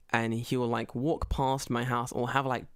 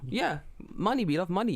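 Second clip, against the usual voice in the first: mock greedy local; 4 semitones higher than usual. Imitating locals who love money.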